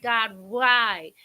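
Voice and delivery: loud retold plea; anguished cry to God. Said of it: "I am crying and I am screaming".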